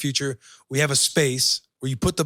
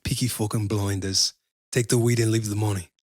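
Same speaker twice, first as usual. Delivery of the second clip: put-on British gangster accent; 4 semitones lower than usual. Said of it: "could you do the accent".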